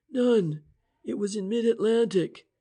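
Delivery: Inspector French voice. Acted. The inspector explaining the cipher to Price and Shane, eager. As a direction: lay out the theory with rising energy.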